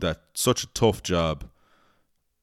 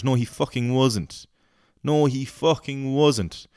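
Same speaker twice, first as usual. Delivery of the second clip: rising angry insistence, slower; angry denial; 6 semitones higher than usual. Real, not acted. Ranting at a tourist, furious denial. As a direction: hammer it home, heated. Angry rant at fake Irish claims.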